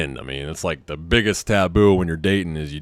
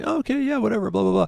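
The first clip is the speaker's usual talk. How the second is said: mock dismissive; 13 semitones higher, faster than usual. Brushing off email, mocking.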